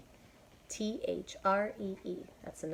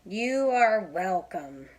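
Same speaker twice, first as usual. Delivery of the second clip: Piggy welcome; 9 dB louder, much slower than usual. Acted. Piggy replies.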